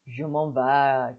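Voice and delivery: ordinary talk, nothing marked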